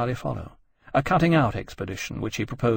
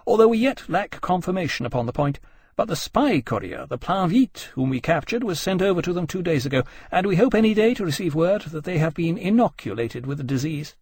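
higher-pitched, measured officer reporting; a light touch of naval formality, higher in pitch; lightly voiced admiral; 6 semitones higher than usual. Nelson reporting to the meeting on the infected courier, lightly formal.

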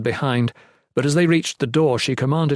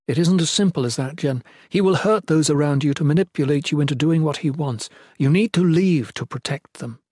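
slightly higher, earnest woman's character voice; a hint of an anxious noblewoman; lightly voiced queen, urging; 3 semitones higher than usual. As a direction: gently press him to heed a warning.

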